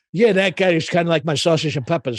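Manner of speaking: old Don in retirement, lightly voiced; older mobster. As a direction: grumble like an aging New York Italian card player. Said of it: "play kind of the older guy".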